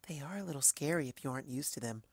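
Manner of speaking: quiet and quick; soft shy reassurance. Acted. Fluttershy comforting the narrator, soft and quick. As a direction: murmur kindly.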